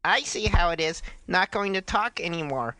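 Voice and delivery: mildly hammed-up chat roleplay; dramatic reading. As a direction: read it as mock melodrama. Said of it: "do a dramatic reading".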